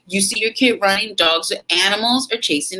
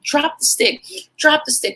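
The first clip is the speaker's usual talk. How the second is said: higher, pressing shout repeated; urgent yell; 10 semitones higher than usual. Retold or imitated. Mother ordering her running son to drop it, urgent yell. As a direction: yell the order twice, fast. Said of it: "So I'm like".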